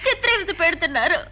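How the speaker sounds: tearful, sobbing between phrases; crying. Acted. Daughter telling her mother of torment by her husband, crying. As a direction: complain through tears. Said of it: "ఎందుకు ఏడుస్తోంది?".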